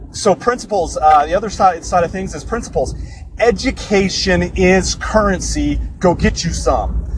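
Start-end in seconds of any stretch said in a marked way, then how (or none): 3.4-7.1 slow, preachy quote delivery; E T the Hip Hop Preacher. Retold or imitated. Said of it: "That's a little quote from E T, the hip hop preacher".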